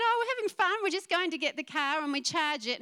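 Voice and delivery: retelling Anna's giggly, carefree reply; giggly excited. Retold or imitated. Pastor imitating a giggling young wife on the phone, high and bubbly. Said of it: "she's giggling".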